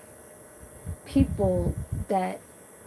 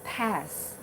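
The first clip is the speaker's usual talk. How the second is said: Filipino broken English; 3 dB quieter, slower than usual. Retold or imitated. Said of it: "He said it kinda like in an accent".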